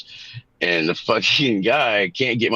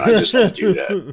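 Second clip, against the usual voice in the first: squeaky high voice; 12 semitones higher, 4 dB louder than usual. Pretend. Mock high-pitched protest.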